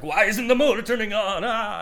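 mock frantic cry at a dead motor; panicked boater. Panicked boater voiced in story.

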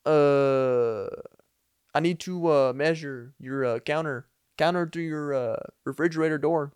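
halting, put-on Hispanic accent. Man at the door explaining his measuring job, Hispanic accent. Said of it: "doing this whole Hispanic accent".

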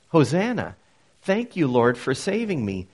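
a fuller, stronger declaration of thanks; joyful praise. Shown as a demonstration. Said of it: "So Hosanna has come to mean".

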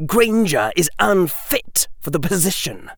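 high-pitched, stiff objection; formal schoolboy complaint; formal Draco. Acted. Draco objecting to Granger as general, formal.

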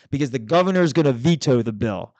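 building into an imitated shout; retold yelling. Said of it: "she starts yelling at me".

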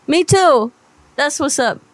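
a lightly voiced, brash, mouthy woman chewing out a caller; sassy furious prank-call woman. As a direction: play an angry, foul-mouthed single mom demanding her money. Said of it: "I just went full blown whatever that was".

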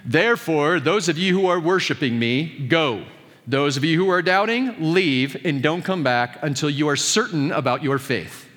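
mock stern Jesus. Jesus dismissing the doubters, lightly mocked stern voice. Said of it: "I don't know that Jesus would have talked like that".

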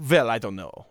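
put-on a light German accent with V for W; imitating a German saying "Well" as "Vell"; offhand mock German accent. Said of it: "a German out there who's like".

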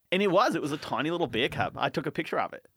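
Aussie telling a bear tale; casual mock-Australian storytelling; put-on Australian accent. Telling friend about a tiny bear cub, put-on Australian accent. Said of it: "in an Australian accent".

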